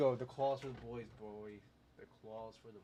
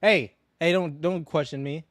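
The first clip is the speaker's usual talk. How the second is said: mock outrage; 5 semitones higher, 6 dB louder than usual. Mock outrage at a chat question.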